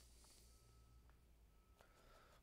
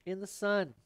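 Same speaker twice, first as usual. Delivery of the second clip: painting show host; 7 semitones higher, 8 dB louder than usual. Pretend.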